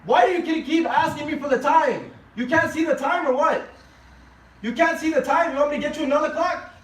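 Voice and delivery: angry son snapping at his father; yelling. Acted. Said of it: "he starts yelling at his father".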